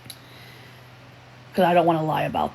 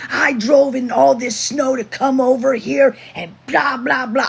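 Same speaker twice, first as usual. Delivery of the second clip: imitating his yell, much higher and louder; mock yell; 9 semitones higher, 5 dB louder than usual. Mocking the friend who drove through snow, shouting. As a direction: ham up the friend's rant. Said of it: "he was screaming at top".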